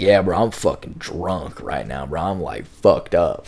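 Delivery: slow, slurred imitation of a drunk friend; mock drunk drawl. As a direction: drag the words like you've had too many. Michael says he's drunk.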